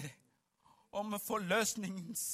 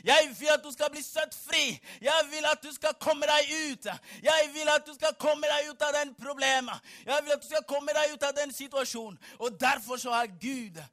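loud, driving sermon delivery; full-force preaching; 4 semitones higher, 5 dB louder than usual. Acted. Preacher telling congregation God will free them, full-force preaching. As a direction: preach it out with heavy stresses.

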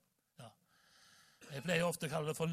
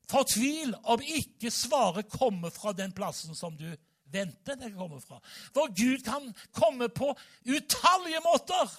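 full-force preaching; 5 semitones higher, 9 dB louder than usual. Acted. Preacher urging the congregation not to despair, loud fervent preaching. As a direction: build to a thundering exhortation, dragging out the words.

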